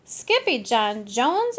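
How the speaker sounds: loud, slow scolding call; mother's exclamation. Acted. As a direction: call him out sharply. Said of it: "exclaimed Mama".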